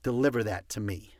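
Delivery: crisp low command. Shown as a demonstration. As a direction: give the order, no asking. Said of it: "you commanded them".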